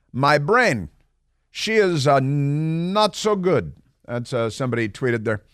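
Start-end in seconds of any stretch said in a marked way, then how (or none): 0.1-3.7 put-on Italian accent. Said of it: "speaking an Italian accent".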